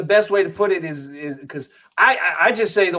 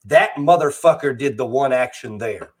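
lower, tidier, more formal delivery; proper voice for white people; 5 semitones lower than usual. Retold or imitated. Code switching to talk to white people, formal proper delivery. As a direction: straighten up the speech for a white listener. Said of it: "talk to white people".

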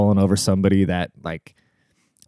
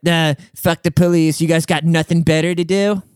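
mock hostile driver; 6 semitones higher than usual. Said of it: "in their goddamn Prius ... Biden sticker".

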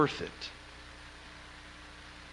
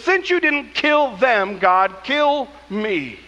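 slow, mock-tragic plea to God; melodramatic Jonah; slower than usual. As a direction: drag it out like a sulking drama queen. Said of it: "he says".

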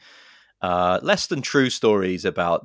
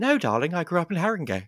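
imitated Gillian Anderson; 10 semitones higher than usual. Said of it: "She's like".

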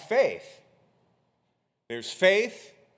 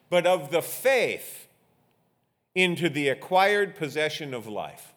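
emphatic, measured pulpit reading; scripture reading; 4 semitones higher, 5 dB louder than usual. Real, not acted. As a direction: proclaim each phrase to the congregation, with strong key words. Reads scripture to congregation.

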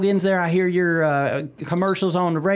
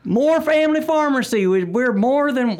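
ad read; 7 semitones higher than usual. Pretend. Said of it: "let me hear your rendition".

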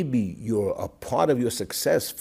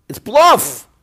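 retold exclamation; 13 semitones higher, 15 dB louder than usual. Father's rebuke retold.

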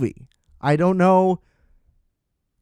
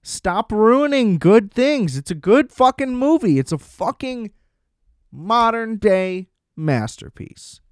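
worked-up, higher-pitched rant; angry; 4 semitones higher than usual. Real, not acted. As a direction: vent with drawn-out, raised emphasis. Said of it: "I'm angry".

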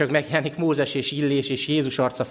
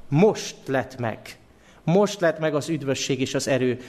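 slow solemn proclamation. Shown as a demonstration. Reads the heavenly voice slowly.

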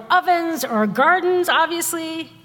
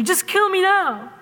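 lightly voiced exasperated Jewish grandmother, a bit higher; kvetching grandmother; 5 semitones higher than usual. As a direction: whine "kill" like a fed-up grandma. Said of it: "exasperated Jewish grandmother kvetching".

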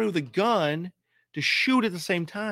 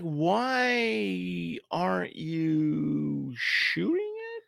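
incredulous; much slower than usual. Retold or imitated. Mocking the sailor's inaction.

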